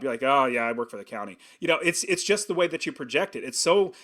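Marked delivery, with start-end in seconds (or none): 0.2-1.4 lower, deflated "oh yeah"; disappointed. Retold or imitated. Someone disappointed in their county job, deflated and lower. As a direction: sound let down by your own job. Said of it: "if you're disappointed in your job".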